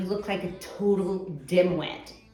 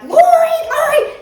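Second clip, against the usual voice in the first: much higher, loud scream of Lori, Lori!; screaming her name; 15 dB louder than usual. Retold or imitated. Woman screaming to her drowning friend, calling her name. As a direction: call out over the river. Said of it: "So I screamed".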